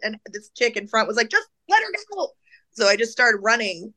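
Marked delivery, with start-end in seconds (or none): 1.3-2.3 high-pitched mimicked call; high urgent interjection; retold calling out. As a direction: imitate a bystander urging a guard.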